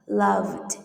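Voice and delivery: "loved" ending in d after v; careful model of "loved" with d ending; final d sound. Shown as a demonstration. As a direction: say "loved" as one syllable, closing on d. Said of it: "An ending sound with d".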